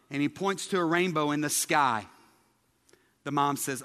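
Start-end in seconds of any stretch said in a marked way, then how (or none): none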